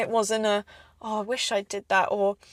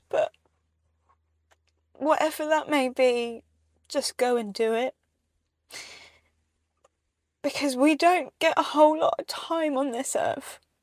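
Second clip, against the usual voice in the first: tearful, ugly crying through the words; 4 semitones higher than usual. A speaker apologizes for ugly crying, then keeps talking, crying while talking. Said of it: "I'm gonna really ugly cry now".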